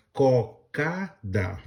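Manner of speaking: "cocada" said slowly, syllable by syllable: co-ca-da; drawing out "cocada" to show its three syllables; slow demo. Shown as a demonstration. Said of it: "eu dividi ela em três pedaços". ("cocada" dita devagar, sílaba por sílaba)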